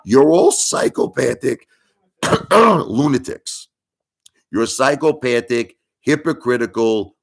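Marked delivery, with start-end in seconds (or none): 2.5-3.7 lunatics stretched slowly with a rise; slow scornful lunatics; drawn-out insult. Real, not acted. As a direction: drag out lunatics in disgust. Ranting at viewers.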